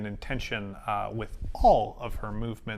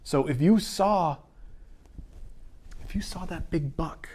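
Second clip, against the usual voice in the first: nervous, pleading, words tumbling faster; shaky plea; 3 semitones higher than usual. Acted. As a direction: plead with her, voice unsteady. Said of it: "and shakily goes".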